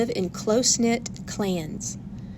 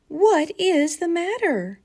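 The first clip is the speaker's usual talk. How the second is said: demanding; 9 semitones higher, 5 dB louder, slower than usual. A narrator's reading. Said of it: "she demanded".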